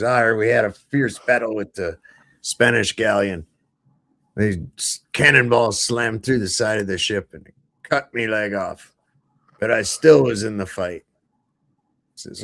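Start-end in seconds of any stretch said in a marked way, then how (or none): 0.0-11.0 lightly acted old sea dog telling a yarn; a hint of pirate storyteller. Pirate recounting a sea battle, lightly acted pirate voice.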